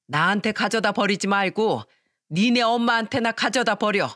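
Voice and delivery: stern mother-in-law berating her daughter-in-law; angry scolding. Acted. Mother-in-law scolding her son's wife, angry and stern. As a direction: scold her with hurt, rising anger.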